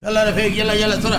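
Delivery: loud guard barking at prisoners to hurry; guard yelling. Acted. Guard shouts at inmates to move: loud barking orders. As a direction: shout them along like a jail guard.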